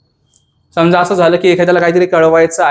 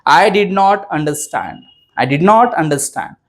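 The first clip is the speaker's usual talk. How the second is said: very slow, word by word; slow dictation; much slower than usual. Shown as a demonstration. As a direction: say it slowly so students can repeat. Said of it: "कसं म्हणायचं इंग्लिशमध्ये?". (हळू, शब्द-न-शब्द)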